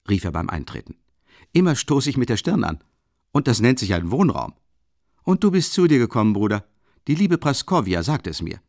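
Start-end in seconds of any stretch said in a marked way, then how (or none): 1.5-8.6 high, loud and boisterous, a big clumsy student; hearty booming Rasumichin. Acted. Rasumichin ducking into the tiny room, loud and hearty. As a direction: fill the cramped room with your voice. Rasumichin greets his friend.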